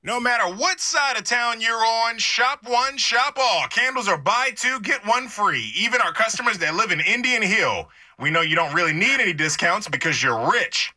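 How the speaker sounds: lightly voiced store PA announcer; store loudspeaker announcer. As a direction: pitch it like an in-store sale. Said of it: "Or something like that".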